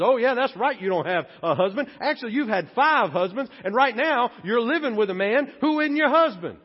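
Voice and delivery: Jesus cheerfully calling out the woman at the well; knowing challenge. Retold or imitated. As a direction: tease her with the truth. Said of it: "pushes her out of her comfort zone".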